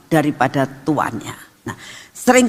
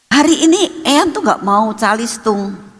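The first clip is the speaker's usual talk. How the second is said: put-on coaxing child; 5 semitones higher than usual. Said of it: "itu merayu papa mamahnya".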